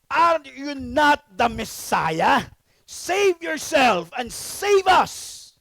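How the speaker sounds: a criminal taunting Jesus on the cross, slow and mocking. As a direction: sneer it out slowly as the scoffing thief. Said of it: "ganun yung boses kapag kriminal".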